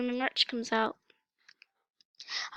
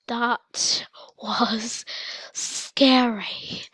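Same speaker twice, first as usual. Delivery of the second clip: spooky whisper; much slower than usual. Real, not acted. Repeats it in a hammed whisper.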